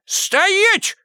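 very high booming halt order; thundering command. A narrator's reading. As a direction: freeze him on the spot. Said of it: "грохнул снова сторож". (громовой окрик «Стоять!»)

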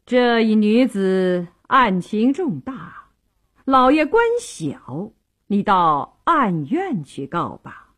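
slow, drawn-out official address; a hint of officialdom, words stretched; mildly formal magistrate turning away a petitioner; lightly voiced county magistrate.

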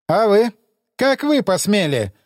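mock his words back at him; mocking echo. Emissary mockingly echoes him.

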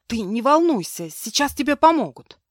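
calm her down urgently; urgent comfort. Acted. Maid comforts the girl in labour, high urgent reassurance.

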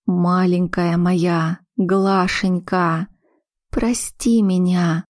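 tender. Acted. Mother comforting weeping daughter.

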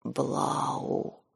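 barely voiced rasping whisper; hoarse whisper. A narrator's reading. Nike numbly names Blau, hoarse whisper. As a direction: squeeze the name out in a hoarse whisper. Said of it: "выдавил Нике хриплым шёпотом".

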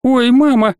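high squeaky yelp; a startled girl squeaking in fright. A narrator's reading. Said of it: "пискнула девушка". (пискнула, высоко и громче)

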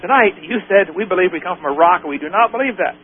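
mildly huffy, imitated complaint. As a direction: retell her indignation, a touch huffy. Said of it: "was all huffy".

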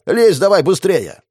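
loud, drawn-out urging shout. A narrator's reading. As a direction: hurry him up by yelling. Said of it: "крикнул хозяину дома". (кричит)

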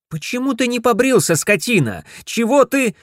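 high, sharp scolding; scolding wife. Acted. Wife scolds her unshaven husband. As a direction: snap at him in disgust.

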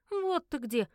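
relieved exhale. Acted. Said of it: "облегчённо выдохнула Винни".

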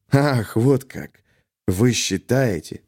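slow, sneering mockery; drawn-out scorn; angry sneer. A narrator's reading. Colonel mocking his captain, slow angry sneer. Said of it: "Кисаев зло рассмеялся".

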